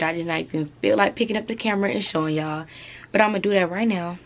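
breathless, catching air between words; out of breath. Real, not acted. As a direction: talk while winded from moving around. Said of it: "I don't know why I'm out of breath".

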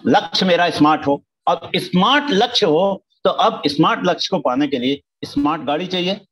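loud, insistent teacher; emphatic. Real, not acted. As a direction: drive the point home, loud. Emphatic sermon point.

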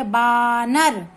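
बानर with a long drawn-out बा, then नर; joined-up syllables. Shown as a demonstration. Teacher blending a word for a child, slow joined syllables. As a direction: stretch the बा and join it onto नर. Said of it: "पहले अक्षर को जोड़ दीजिए".

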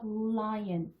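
"lion" with a slight 으 before a held L; "lion", tongue behind upper teeth on the L; L with lead-in. Shown as a demonstration. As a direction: ease into lion from an "eu" sound. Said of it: "이런 식으로 발음해서".

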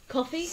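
COFFEE rising high, as a question; questioning offer. Acted. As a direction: read "Coffee?" with a high lilting rise. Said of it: "coffee with a question mark".

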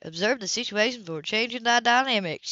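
mocking her sister's prim phrasing; sneering imitation. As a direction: sneer it back in a mock copy. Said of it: "her imitation of a sneezing voice".

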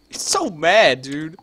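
loud high excited outburst; excited yell. Real, not acted. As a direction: burst out with delight. Excited reaction.

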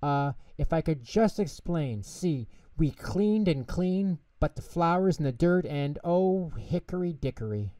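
high, nervous little mouse; flustered explaining. A narrator's reading. Tutter explains mess to Grandma, high flustered voice. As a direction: stammer excuses in a high voice.

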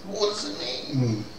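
normal talking voice

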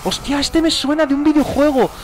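high-pitched, keyed-up outburst; excited recognition. Real, not acted. Gamer half-recognising a new character, excited. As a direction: blurt it out as the memory hits.

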